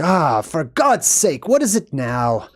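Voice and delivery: slow, put-upon groaning complaint; a drawn-out, weary grumble; mock exasperation. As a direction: act lightly fed up at being bothered. Caveman exasperated at being disturbed.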